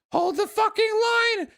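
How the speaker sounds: high, loud mock battle cry; hammed-up shout to the troops; mock rallying yell. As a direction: bellow it like a rallying call. Reading a rallying chat message.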